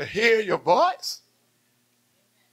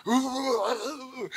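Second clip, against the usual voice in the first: drawn-out, softer imitation of wailing; imitated wail; 3 semitones higher, 7 dB quieter than usual. Preacher mimics the bishop crying out at night, long imitated moan. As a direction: mimic a man moaning in prayer. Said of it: "I heard a sound".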